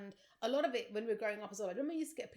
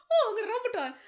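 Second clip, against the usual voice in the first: laughing mock childish; 13 semitones higher, 12 dB louder, faster than usual. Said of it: "I remember reading this thinking".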